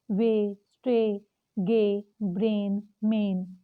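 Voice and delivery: "वे", "स्टे" said slowly with a long ay; sounding out ay words. Shown as a demonstration. Teacher slowly models ay words for students. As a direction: stretch each ay clearly. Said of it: "जैसे पे".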